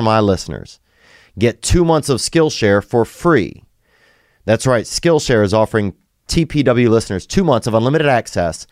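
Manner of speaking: upbeat podcast sponsor read, URL spelled out slowly. Acted. Host reading a sponsor spot to listeners, ad read. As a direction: sell it like a practiced host read.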